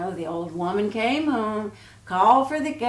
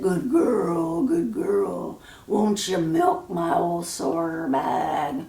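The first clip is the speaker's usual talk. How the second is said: put-on slow old cow voice; 3 semitones lower, slower than usual.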